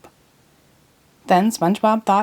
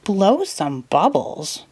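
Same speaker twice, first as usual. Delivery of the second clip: shocked; much slower than usual. Acted. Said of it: "looked shocked".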